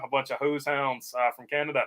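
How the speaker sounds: a hammed-up, quick stab at a Canadian accent with a tossed-in eh; mock Canadian accent, clearly half-hearted; bad Canadian accent. Streamer teasing Canadian viewers in chat, bad Canadian accent. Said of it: "terrible accent. Sorry about that".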